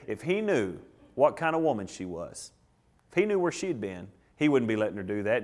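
low, soft disapproving murmur among onlookers; hushed gossip. Acted. Onlookers muttering about the woman, hushed and low.

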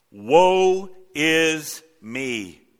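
very slow, loud wail; drawn-out lament. Acted. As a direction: stretch the woe in despair. Reading Isaiah's lament.

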